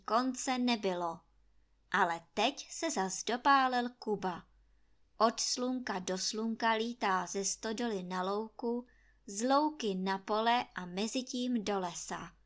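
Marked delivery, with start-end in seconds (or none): none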